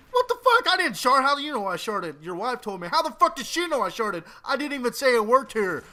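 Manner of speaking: loud, high indignant denial; mock outrage. Arguing with the counter clerk, a loud indignant denial. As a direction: yell it back like you're insulted.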